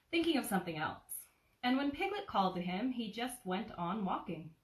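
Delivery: put-on gentle storybook narration for a child; cozy read-aloud of a childhood book; bedtime story reading. A narrator's reading. Reads Winnie the Pooh aloud.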